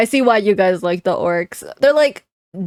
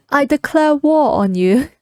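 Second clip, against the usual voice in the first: playful mock-British declaration, pitched up; British accent; 4 semitones higher than usual. Streamer jokingly declaring war like a Brit, British accent. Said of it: "how do the British say war".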